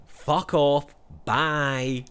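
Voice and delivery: curt mock Scottish send-off; harsh dismissal. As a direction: dismiss her flatly and hard. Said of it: "It's so harsh".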